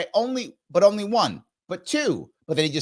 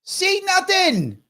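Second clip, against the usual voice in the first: sarcastic; 12 semitones higher, much slower than usual. Pretend. Mocking the speaker's empty answer.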